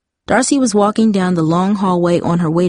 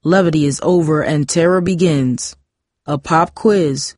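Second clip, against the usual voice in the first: stern, theatrical teacher voice. A narrator's reading. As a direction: pronounce it like a glaring schoolmaster. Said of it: "glared at the students and said".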